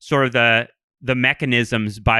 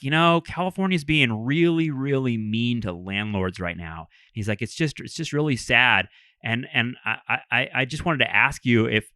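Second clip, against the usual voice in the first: meek landlord; 4 dB quieter than usual. Retold or imitated. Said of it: "kind of a meek guy".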